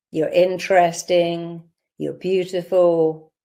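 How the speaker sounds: slow, heartfelt affirmations; with feeling. Shown as a demonstration. Coach modelling compliments the inner child never heard, slow and heartfelt. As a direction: let each compliment land slowly. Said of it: "I want you to say now".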